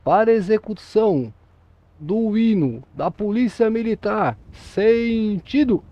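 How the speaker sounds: a parade command call, final word drawn out long; voz de comando militar arrastada; drill command. Shown as a demonstration. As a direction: bark it across the parade ground, stretching the end. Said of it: "vai falar assim".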